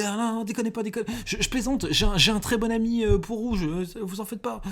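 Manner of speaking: high, frantic pleading captive; panicked prisoner. Acted. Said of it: "il dit".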